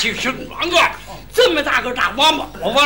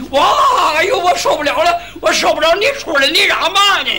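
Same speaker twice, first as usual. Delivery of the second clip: yelling bathers; 5 semitones higher, 5 dB louder than usual. Acted. Bathers yelling in hot pool.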